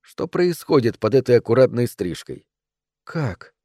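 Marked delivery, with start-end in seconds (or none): 3.0-3.5 very soft, hushed question; whispered. A narrator's reading. Mother murmuring to herself about her son, whispering. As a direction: breathe the question out quietly. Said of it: "прошептала она".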